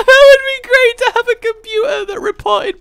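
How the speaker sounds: high, loud words through laughter; laughing. Real, not acted. Player amused at an idea of a talking computer, laughing. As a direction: crack up while talking.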